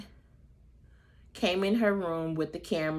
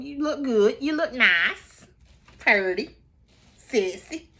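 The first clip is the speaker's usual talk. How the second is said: flirty compliments; 6 semitones higher, 5 dB louder, slower than usual. Retold or imitated. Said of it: "gave Ralph some compliments".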